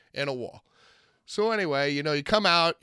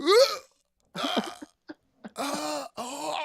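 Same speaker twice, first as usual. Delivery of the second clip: high halting uhs and ohs; short high grunts with gaps; imitated stuttering noise; 9 semitones higher, much slower than usual. Sound guy at the button, stuttering high noises.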